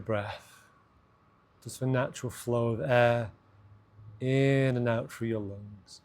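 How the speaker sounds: unhurried, spaced-out meditation guidance; guided meditation. Acted. Host leading listeners to notice their breath, guided meditation. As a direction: guide them into the breath, pausing between phrases.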